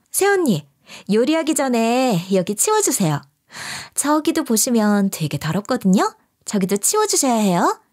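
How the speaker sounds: a hint of a bratty sister-in-law giving orders; lightly voiced bossy young woman. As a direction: order her around like a maid. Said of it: "명령질을 해대고 있더라고요".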